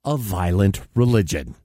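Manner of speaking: comedy newscast with punchy phrasing; mock news read. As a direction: read it like a satirical anchor. Reads mock news items.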